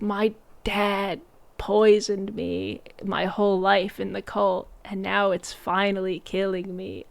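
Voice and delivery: hammed-up feeble invalid; dying wife. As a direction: draw it out weakly, as a mock dying woman. Voicing dying wife in film retelling.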